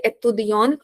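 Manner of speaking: "étudiant" said as étudiante, ending sounded; feminine-style "étudiant" with audible final n-t; stressed feminine ending. Shown as a demonstration. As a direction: lean on the last syllable of "étudiant", closing on a consonant. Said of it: "I put more stress".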